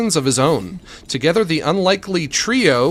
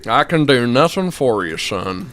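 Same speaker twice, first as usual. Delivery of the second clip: lawman voice; 3 semitones lower than usual. Retold or imitated. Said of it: "that voice".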